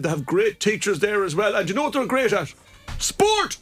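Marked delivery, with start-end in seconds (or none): 3.0-3.6 jumps high with glee on the word; excited reveal. Acted. Santa telling listeners what the school is great at, high excited reveal. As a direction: burst out with the punchline.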